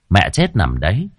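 plain reading voice

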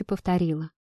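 ordinary delivery, nothing marked

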